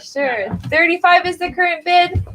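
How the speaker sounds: brisk auctioneer calling bids. Acted.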